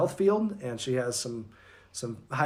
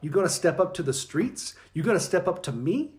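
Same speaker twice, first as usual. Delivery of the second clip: higher, taunting challenge; playful street-tough dare; mock trash talk; 4 semitones higher than usual. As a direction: square up to a rival in jest. Mock trash-talk before game.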